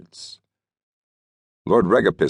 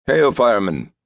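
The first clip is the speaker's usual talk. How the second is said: hearty greeting; 7 semitones higher, 3 dB louder than usual. A narrator's reading. Greeting firemen cheerfully.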